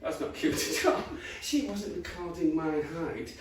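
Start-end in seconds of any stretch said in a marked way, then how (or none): 0.0-1.0 put-on to his girlfriend, quietly horrified; hushed flat reply. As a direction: mutter it under your breath. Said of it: "I'm like".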